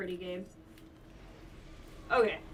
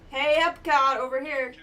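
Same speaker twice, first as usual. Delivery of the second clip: calling out; 3 semitones higher, 8 dB louder than usual. Real, not acted. Luring the enemy.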